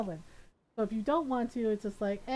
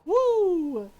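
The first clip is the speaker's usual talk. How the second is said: fast, rising to a louder mock "woo"; awkward hasty exit; 7 dB louder than usual. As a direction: hurry off embarrassed. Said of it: "It's like".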